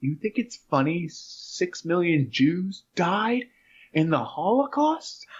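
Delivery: slow, stern mock reproach; teacher scolding. Teacher scolding the laughing kid, slow and stern. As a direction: drag out the scolding word by word. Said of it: "and he's like".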